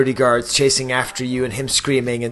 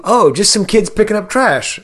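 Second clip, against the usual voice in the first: quoting the guard; 6 semitones higher than usual. Retold or imitated. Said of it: "he said".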